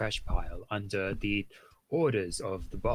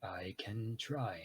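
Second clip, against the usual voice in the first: whispering; 10 dB quieter, much slower than usual. Acted. Character answering in tense cell.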